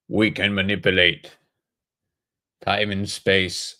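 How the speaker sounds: slow put-on voice of a building; talking White House. Streamer imagines the White House speaking, slow put-on voice. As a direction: give the White House a drawn-out, accented voice. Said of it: "that's what the White House sounds like if it talks".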